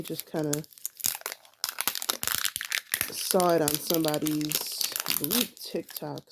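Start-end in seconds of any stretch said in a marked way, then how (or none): 3.1-6.3 talking while crunching chips; words through a mouthful of crunch. Real, not acted. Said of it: "Sorry for the, the crunching there".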